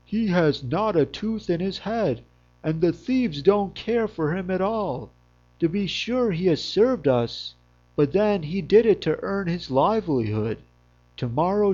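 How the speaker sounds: a hint of a stubborn farmer. Shepherd argues the dog is useless.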